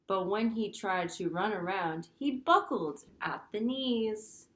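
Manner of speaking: lively storybook read-aloud; reading to children. Acted. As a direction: read it like story time for little kids. Teacher reads picture book aloud.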